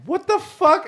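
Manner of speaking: high-pitched, mock-stunned outburst; retold shock. Diner recalling the table backing away, shocked. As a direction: jump up high in disbelief.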